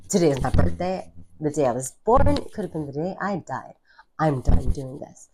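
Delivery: fed-up declaration, acted out with force; emphatic retold declaration. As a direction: lay down the law, hitting key words hard. Retells announcing that she quits.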